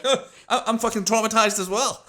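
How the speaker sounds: high, loud, laughing mock outrage; laughing mock protest. Telling a friend about the crew's blame, high laughing mock outrage. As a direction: cry out you are traumatized through a laugh. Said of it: "And I was like".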